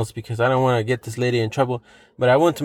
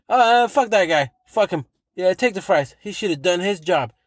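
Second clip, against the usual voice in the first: higher-pitched retold brush-off; imitating dismissive lady; 4 semitones higher than usual. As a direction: wave it away, indignant on his behalf. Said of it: "She's like".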